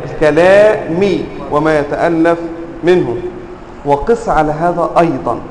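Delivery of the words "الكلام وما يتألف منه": "الكلام" ending in a clear -i, a bit slow; genitive ending. Shown as a demonstration. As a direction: say "الكلام" as al-kalāmi with the final i. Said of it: "مجرورة فأقول".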